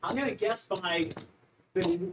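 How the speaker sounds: out of breath from squatting; straining through squats. Real, not acted. Player counting squats mid-exercise, real exertion.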